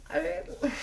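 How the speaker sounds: put-on high whiny child voice; little girl voice. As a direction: whine it like a small kid.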